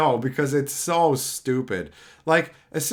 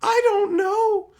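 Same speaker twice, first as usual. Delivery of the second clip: laughing helplessly; slower than usual. Retold or imitated. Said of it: "laughs, and all I could say is".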